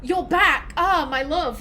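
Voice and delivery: hammed-up lover greeting her returned hero; mock-romantic sigh of a reunited sweetheart; swooning Liara. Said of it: "Liara going".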